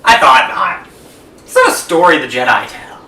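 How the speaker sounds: measured dramatic recital; theatrical monologue. Acted. Co-host reciting a Sith legend to friend, theatrically. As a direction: deliver each line as a weighty pronouncement.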